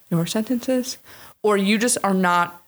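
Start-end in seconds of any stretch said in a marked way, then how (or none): 0.1-1.0 "sentences" lifted with a rising end; upspeak on sentences. Shown as a demonstration. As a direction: turn "sentences" up like a question. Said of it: "and turning up".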